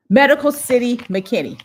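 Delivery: real triumphant recollection; sudden recall. Real, not acted. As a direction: blurt it out as it comes back to you. Suddenly remembers the hospital's name.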